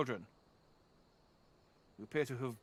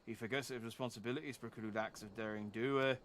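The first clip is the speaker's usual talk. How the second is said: a lightly done Canadian father, eh at each end; a proud old Canadian father, solemn; Canadian accent. Acted. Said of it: "it's tiring being Canadian".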